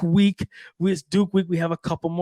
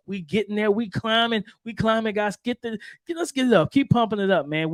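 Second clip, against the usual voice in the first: higher-pitched rallying push; hyping up listeners; 4 semitones higher than usual. Real, not acted. Host urging podcast fans toward more subscribers, hyped-up. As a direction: cheer them on in a raised pitch.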